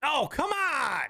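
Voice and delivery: high, slow whining complaint; whiny protest. Real, not acted. Protesting the co-host, high slow whine.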